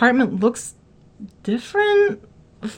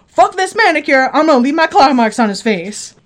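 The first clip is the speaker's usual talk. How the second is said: crazed fury; 4 dB louder than usual. Retold or imitated. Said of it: "I was like".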